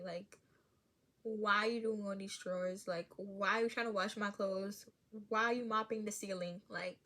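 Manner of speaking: fed-up parent scolding; annoyed mom. Pretend. Mom venting at her child who keeps reminding her, exasperated. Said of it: "it would be very annoying".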